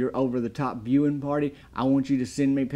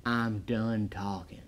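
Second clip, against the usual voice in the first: softer, slower deadpan Stallone impression; cool mellow Stallone; 6 dB quieter, slower than usual. Reviewer repeats Stallone's line, slow and deadpan. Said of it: "He is cool as a cucumber".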